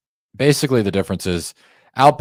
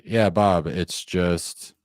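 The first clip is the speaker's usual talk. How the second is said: familiar with pause; 3 dB quieter, much slower than usual. Shown as a demonstration. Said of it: "And I like to pause there".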